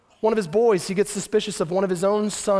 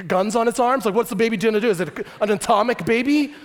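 incredulous skeptic; 6 semitones higher, 4 dB louder than usual. Acted. Skeptic questioning God's plan.

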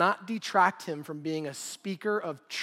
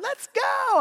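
high, loud call of a searcher; retold yell; 6 dB louder than usual. Searcher calling to the group, a loud mock yell. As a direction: shout it out to the others. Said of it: "I heard one of them yell".

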